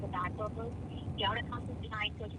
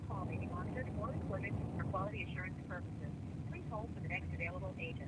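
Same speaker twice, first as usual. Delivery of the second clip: recorded hold message over speakerphone; automated phone system voice; phone menu voice; 3 semitones lower, 5 dB quieter than usual. Real, not acted.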